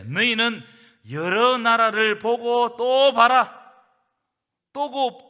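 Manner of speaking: loud, slow booming command from God; God thundering. Acted. God answering the prophet Habakkuk with a loud, slow roar. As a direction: boom it out slowly, like God rebuking the prophet. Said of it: "오히려 하나님 더 큰 소리를 쳐버려요".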